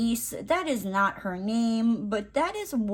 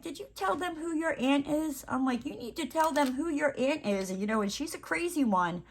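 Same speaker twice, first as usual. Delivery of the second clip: put-on higher, softer sing-song baby talk; 7 semitones higher, 3 dB quieter than usual. Aunt talking to the teething niece in higher, softer baby talk. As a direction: coax the baby playfully, pitched up.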